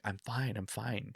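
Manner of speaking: softly retold, soothing voice; hushed, tender quote; gentle reassurance. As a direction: reassure them quietly, imitating a calm friend. Retold reassurance from lost friend.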